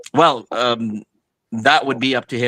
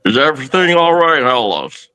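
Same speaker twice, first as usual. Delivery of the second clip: muffled, echoing voice. Acted. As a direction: voice heard through a hallucination. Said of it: "Roderick's voice seems muffled echoing".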